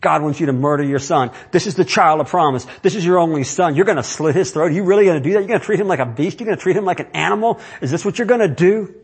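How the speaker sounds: mock taunting devil, rising questions. Preacher voicing the devil taunting Abraham, lightly voiced. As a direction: needle him like the devil. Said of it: "the devil's yelling in his ear".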